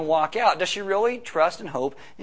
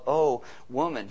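slow, tender "Oh woman"; "Oh woman" drawn out gently, with endearment; loving, tender; 3 semitones lower, slower than usual. Shown as a demonstration. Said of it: "this loving term of".

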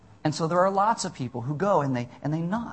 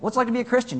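higher-pitched imitation of someone asking; acted curious question; 9 semitones higher, much faster than usual. Someone asks a believer about faith, acted curious question.

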